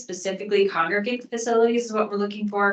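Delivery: ordinary talk, nothing marked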